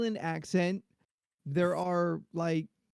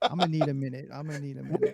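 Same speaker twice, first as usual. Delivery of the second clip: wheezing through laughter; laughing; 3 semitones lower, faster than usual. Real, not acted. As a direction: barely get it out laughing. Laughing hard.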